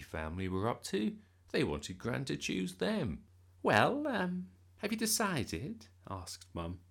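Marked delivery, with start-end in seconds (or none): 3.6-5.9 eager. A narrator's reading. Mum eager.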